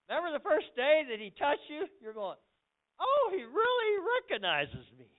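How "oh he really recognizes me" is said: high, excited exclamation; thrilled wonder. Retold or imitated. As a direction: imitate a delighted new believer. Acts out new convert's wonder.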